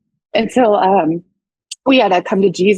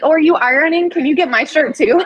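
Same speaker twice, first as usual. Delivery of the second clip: cheeky high request; 8 semitones higher than usual. Retold or imitated. Joking request while he irons.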